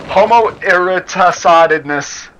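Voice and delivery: "eroticidness" slowly stumbled out with an extra d sound; butchered word. Real, not acted. Reader tripping over a hard word, "eroticidness" slow and mangled. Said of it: "I butchered that word".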